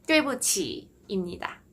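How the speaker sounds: 对不起 with 不 short and toneless; 对不起, middle 不 tapped lightly; staccato. Shown as a demonstration. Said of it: "스타카토로만 그냥 톡 찍어주듯이 읽어주면".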